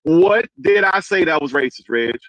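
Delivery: slow, each word spelled out; slow it right down so it lands; said slowly. Shown as a demonstration. Slowing down to press the streamer for an answer. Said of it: "let me say it slow".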